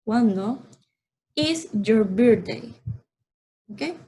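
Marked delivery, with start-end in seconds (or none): 1.4-2.7 slow model question. Shown as a demonstration. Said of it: "Esto en inglés lo preguntamos así".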